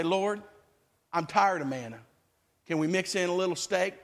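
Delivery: a low, bored gripe to God. Retold or imitated. A believer tired of manna, grumbling low to the Lord. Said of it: "human nature will say".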